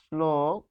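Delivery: "শ্লোক" held long on the o; demonstrated pronunciation. Shown as a demonstration. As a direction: draw out "শ্লোক" as slooo, with a dental s. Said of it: "তাহলে এটি হবে". ("শ্লোক" টেনে, দন্ত স দিয়ে)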